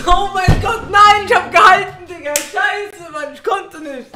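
shrieking with laughter; can't stop laughing. Real, not acted. Laughing fit reacting to clip.

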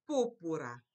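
púrpura with the stress on PÚR; stress first syllable. Shown as a demonstration. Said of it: "Accent, accent".

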